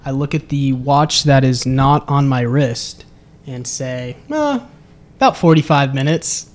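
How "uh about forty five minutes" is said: joking reply after a hesitant "uh"; smiling joke. Retold or imitated. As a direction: answer casually with a smile in the voice. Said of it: "with a smile".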